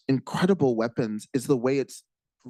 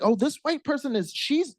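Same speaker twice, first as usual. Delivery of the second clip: amazed; 11 semitones higher than usual. Retold or imitated. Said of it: "where I was like".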